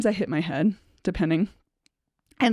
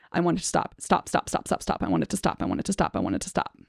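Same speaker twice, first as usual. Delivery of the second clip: softer, half-whispered, much lower pitched stop stop stop; desperate breathy pleading; 4 semitones lower, 4 dB quieter, faster than usual. Shown as a demonstration. Showing what comes out of her mouth in panic, desperate half-whisper. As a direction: let it crumble into a breathless, sinking plea. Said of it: "what's coming out of my mouth is".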